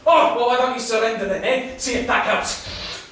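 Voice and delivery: loud, high jeer; heated and scornful; angry taunt. Acted. Taunt in quarrel.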